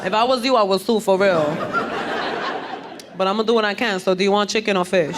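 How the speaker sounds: lightly voiced tactless nurse; unfit nurse voice. Nurse advises dying patient then offers dinner, lightly voiced tactlessness. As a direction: give bad news casually, lightly put-on voice. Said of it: "I can't get bad news from that voice".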